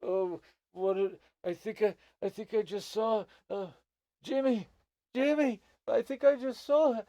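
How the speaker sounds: high, loud groaning gnome calling his friend; dazed gnome. Acted. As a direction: cry out dazedly after a bad fall. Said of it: "he's still like".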